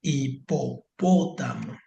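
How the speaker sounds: Hipopótamo said slowly, stress on PÓ; Hipopótamo drawn out slowly to mark the stressed syllable. Shown as a demonstration. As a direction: spell out Hipopótamo, leaning on PÓ. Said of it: "siempre están en la antepenúltima".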